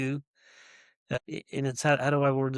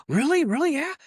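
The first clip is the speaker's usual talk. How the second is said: high, loud, eager double-take; excited disbelief; 12 semitones higher, 3 dB louder than usual. Retold or imitated. Young customer hearing about the shop, excited and high. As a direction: bounce up with thrilled surprise. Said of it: "And he gets all excited".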